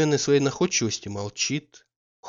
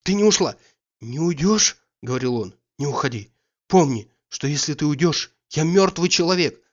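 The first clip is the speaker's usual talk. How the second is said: joyful relief; 3 semitones higher, 4 dB louder than usual. Acted. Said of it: "Он радостно схватил её руку".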